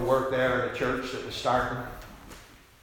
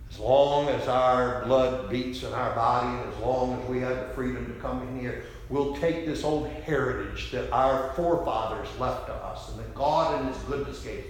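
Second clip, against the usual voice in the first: rousing sermon. Acted. Building pledge in preaching.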